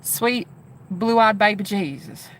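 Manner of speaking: lightly imitated slow Southern accent. Streamer repeating his phrase to check it, imitated southern accent. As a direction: draw it out like his Southern twang. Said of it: "that's how he said it".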